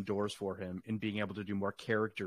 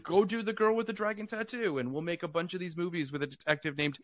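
higher, pushy executive pitch voice; hammed-up executive, pitched higher; mock studio executive; 4 semitones higher than usual. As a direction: play a lightly voiced studio boss selling the idea. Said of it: "Which is like".

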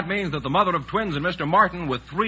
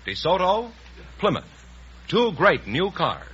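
smooth sponsor plug over music; announcer sign-off; 2 semitones higher than usual. Acted. Announcer plugging sponsor cars to listeners at show's end, smooth ad read. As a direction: wrap up the show with a confident sales read.

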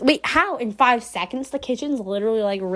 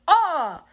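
brief mock scream, falling in pitch; imitated scream; 6 semitones higher than usual. Player imitating the game's scream, short mock yell. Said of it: "deep voice, like".

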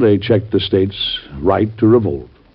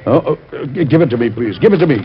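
eager; 4 semitones higher, faster than usual. Acted. Eager president grabs dispatch.

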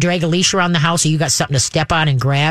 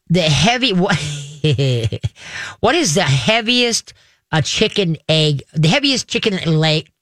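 words slurred by loose teeth; talking around slipping dentures. Real, not acted. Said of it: "Put my teeth back in".

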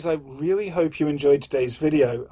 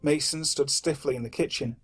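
story narration. A narrator's reading.

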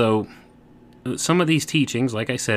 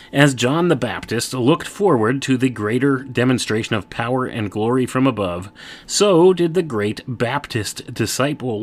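booming biblical narration; 4 semitones higher, 4 dB louder than usual. Acted. Reads aloud from a text.

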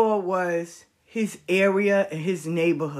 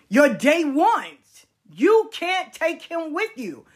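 wise aunt; 3 semitones higher than usual. Retold or imitated. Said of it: "she told him".

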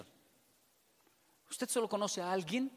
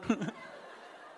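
real laugh; 3 dB quieter than usual. Real, not acted.

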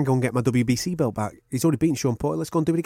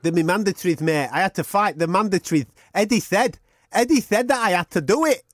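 lightly put-on Kell voice, defensive then cocky; a hint of Kell, brushing off blame; Kell Brook impression. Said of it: "I'm gonna have to talk like this".

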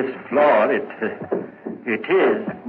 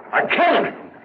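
anguished outburst; faster than usual. Acted. Guilty man cries out his confession to the constable, high and anguished. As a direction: burst it out, breaking down.

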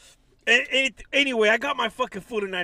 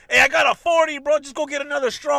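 loud, higher mock cholo pitch; hammed-up street homeboy, louder; 5 semitones higher, 6 dB louder than usual. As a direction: play the panhandler hustling for cash. Voicing cholo panhandler.

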